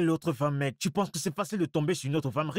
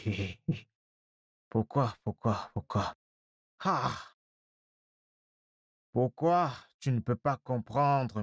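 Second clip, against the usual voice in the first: despairing lament; 5 semitones lower than usual. Acted. Man wailing to his friend about being dumped. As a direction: moan it to your brother.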